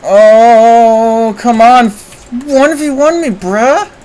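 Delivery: high pleading taunt, rising at the end; high-pitched challenge. Real, not acted. Streamer daring an opponent to duel, high-pitched taunt. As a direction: push it up high, daring them.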